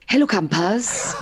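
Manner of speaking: gravelly, cheery camp-host greeting; holiday camp host impression. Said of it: "Can I do my Heidi hi impression?".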